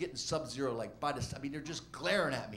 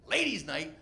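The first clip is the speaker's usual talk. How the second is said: gleeful exclamations rising higher and louder; clueless delight; 6 semitones higher, 4 dB louder, slower than usual. Retold or imitated. Two naive comics thrilled to hear it's ladies' night, mock-excited. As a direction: stretch it out with naive, hammed-up enthusiasm.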